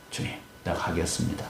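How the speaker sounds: very soft, half-whispered acted reply; hushed submission. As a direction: voice a humbled surrender under the breath. Moses finally submits to God.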